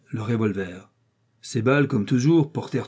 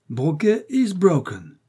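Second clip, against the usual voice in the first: said laughing; 6 semitones higher, slower than usual. A narrator's reading. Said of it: "une voix dit en riant".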